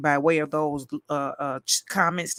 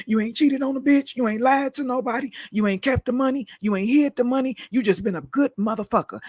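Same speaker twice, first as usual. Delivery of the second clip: livid; 6 semitones higher than usual. Real, not acted. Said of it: "I'm so livid right now".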